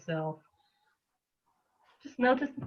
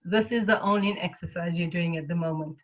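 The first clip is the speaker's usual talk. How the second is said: lightly voiced loving mother, easing a reluctant child; gentle loving mother. Mother coaxing her tired self to exercise, gentle and kind. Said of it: "very gently, loving compassionate mother".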